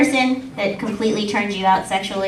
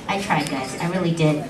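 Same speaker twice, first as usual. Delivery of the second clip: "I tried" dropped low and soft, lower and softer; deflated aside; 5 semitones lower, 7 dB quieter than usual. Real, not acted. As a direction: let "I tried" sink into a resigned mumble. Repeats it under his breath.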